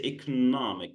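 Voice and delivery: economic stressed on the second syllable, e-CON-omic; teacher's model stress. Shown as a demonstration. Teacher models the stress of economic for the student. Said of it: "the stress here is on the second syllable".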